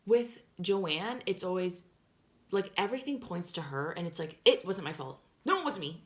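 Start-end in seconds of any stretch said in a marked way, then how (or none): 4.4-6.0 high-pitched imitation of a protesting friend; mock innocence. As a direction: mimic her denials in short, high bursts. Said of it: "That's always how her stories go".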